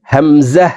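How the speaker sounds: "হামজা" said without lengthening either vowel; no stretch. Shown as a demonstration. Teacher demonstrating hamza, unstretched. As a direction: say "হামজা" evenly with no held note. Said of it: "হামজাতে টান হবে না".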